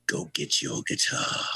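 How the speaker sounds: slow, slurred rock-star imitation; tipsy singer. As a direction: order it as if a few drinks in. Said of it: "he looked like he had a few".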